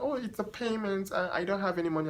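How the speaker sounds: light imitation of the client shrugging it off; casual client. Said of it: "She's like".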